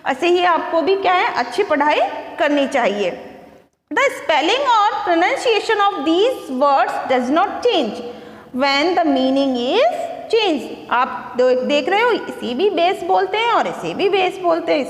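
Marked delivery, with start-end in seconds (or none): 3.9-10.6 reads each English word out slowly for the class; slow, careful read-aloud; slow textbook reading. Acted. Teacher reading the book to her pupils, slow and careful.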